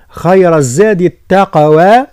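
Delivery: slow tajweed recitation; Quran recitation. Shown as a demonstration. Teacher models verse for students, slow recitation. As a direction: draw out the words in recitation. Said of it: "لا نقول التقوى".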